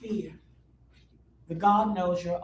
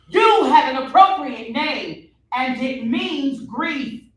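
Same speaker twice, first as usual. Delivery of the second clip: demonic voice; 4 semitones higher, 7 dB louder, slower than usual. Acted. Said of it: "the demonic episode is over".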